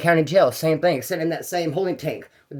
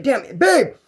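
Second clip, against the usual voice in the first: frustrated inmate; 6 semitones higher than usual. Retold or imitated. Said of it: "He's like".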